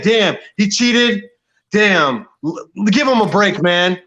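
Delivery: slow, put-on grudging voice; mocking Fury fans. Mocking Fury fans excusing the cheat, slow and grudging. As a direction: drawl it like a fan making excuses. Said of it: "Or they're saying".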